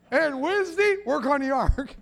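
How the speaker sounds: hammed-up daily grind; mock exasperation. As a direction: push the repeated routine up for laughs. Acted daily ark routine, mounting.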